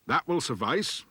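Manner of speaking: lightly voiced dwarf, drawn out. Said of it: "said the dwarf".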